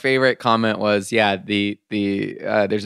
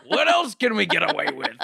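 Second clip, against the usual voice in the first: high, giggling villain line; laughing mock villain; 9 semitones higher than usual. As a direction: giggle through the scheming question. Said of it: "Let's drive into the world".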